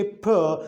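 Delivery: p as "puh", not the letter name; isolated "puh" for p; consonant sound demo. Shown as a demonstration. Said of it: "when we say p".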